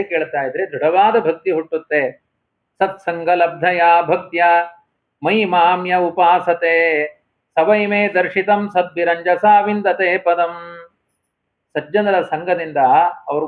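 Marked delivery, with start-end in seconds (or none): 2.8-10.8 slow, measured chanting of the shloka; ಶ್ಲೋಕವನ್ನು ನಿಧಾನವಾಗಿ ಪಠಿಸುವುದು; verse recitation. Acted. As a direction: intone the verse slowly, word by word.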